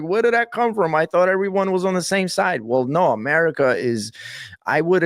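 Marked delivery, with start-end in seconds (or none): 0.0-2.6 higher, startled voice, mildly played; shocked disbelief. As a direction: act stunned by a surprise result. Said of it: "We're like".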